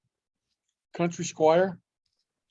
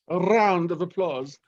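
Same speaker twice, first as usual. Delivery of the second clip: cheering; 3 semitones higher than usual. Acted. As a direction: hype up the crowd. Host cheering on applause.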